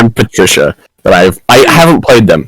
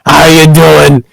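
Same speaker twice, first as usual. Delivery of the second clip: Patricia's voice; 3 semitones higher than usual. Acted. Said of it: "give Patricia a kiss".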